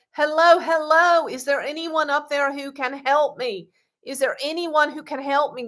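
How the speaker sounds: hammed-up cry for help from below; mock shout for help. Man clinging to a cliff calls up, mock shouting. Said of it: "he shouted up".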